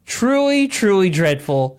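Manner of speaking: first Truly jumps high and hard, second one flat; emphatic truly. Retold or imitated. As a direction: lean hard on the opening Truly. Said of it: "So they wrote".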